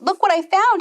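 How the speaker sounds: high, loud proud call; excited. Acted. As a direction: show off a treasure proudly. Jack proud to mother.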